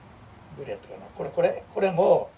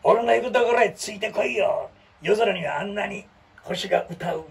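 cool hero lines; 3 semitones higher than usual. Retold or imitated. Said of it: "かっこええやん".

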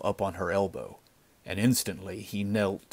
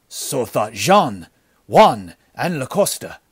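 grim; 4 semitones higher, 9 dB louder than usual. A narrator's reading. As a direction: list each name with grim weight. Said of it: "answered the other grimly".

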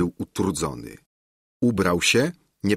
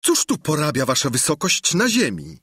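higher, teasing call; mock-respectful soldier; 6 semitones higher than usual. A narrator's reading. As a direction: feign concern for the governor. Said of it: "zawołał jeden z żołnierzy". (żołnierz woła z udawaną troską)

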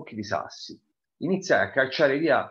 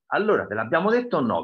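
a mildly raised, higher scolding call; mother shouting; 5 semitones higher, 4 dB louder, faster than usual. Acted. Mother scolds her son about the garage, mild mock shout. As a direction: press him for an answer, half-shouted. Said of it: "gridò".

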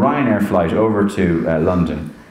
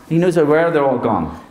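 ordinary talk, nothing marked

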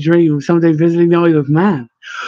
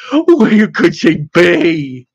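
slow moan; much slower than usual. Acted. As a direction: stretch out each word of the despairing question.

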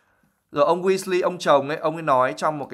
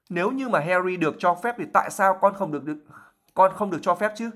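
mild shout; 6 semitones higher than usual. Acted. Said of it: "Ron cũng hét lên".

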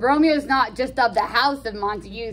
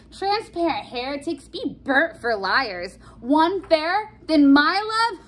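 higher, dramatic outrage; mock indignation; 4 semitones higher than usual. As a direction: rant like an offended lover. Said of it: "he gets mad at Benvolio".

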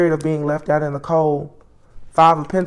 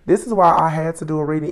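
sick voice. Real, not acted. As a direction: voice worn from illness.

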